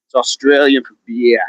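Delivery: hint of an Aussie accent on the slogan; amateur Australian accent. Repeating beer slogan as accent's best, mock Australian. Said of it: "That's about the best my accent gets".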